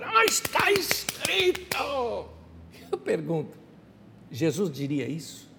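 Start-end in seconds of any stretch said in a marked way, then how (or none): 0.0-2.2 high, slow, drawn-out proclamation; hammed-up cry of someone citing scripture; mock dogmatic objector. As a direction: stretch each word like a pompous scripture-quoter. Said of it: "alguém chegar e falar".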